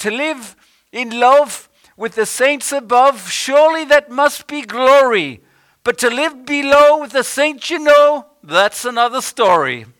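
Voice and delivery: put-on Irish accent, pitched very high. Speaker retelling a man's old saying, irish accent. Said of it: "I'll try and do it in his Irish accent".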